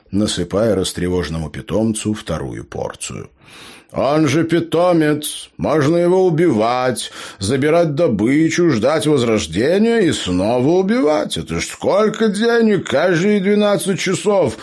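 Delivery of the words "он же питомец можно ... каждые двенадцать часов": inspired gnome. A narrator's reading. Gnome pitches his farming scheme to Joe, high and inspired. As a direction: preach the scheme with wide-eyed greed. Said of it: "вдохновенно вещал Эбер".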